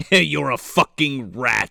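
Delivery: slow, weighty insult; mock monster contempt. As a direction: spell out your disdain like a ponderous brute. Continues voicing Goro's contempt.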